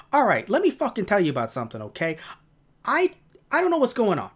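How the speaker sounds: ranting New York grouch impression; Grumble. Grumble telling off concerned visitors, New York grouch rant. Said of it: "He has this New York accent".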